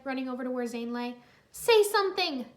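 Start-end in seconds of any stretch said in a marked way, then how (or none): 1.5-2.5 begging. Acted. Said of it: "Nia begged".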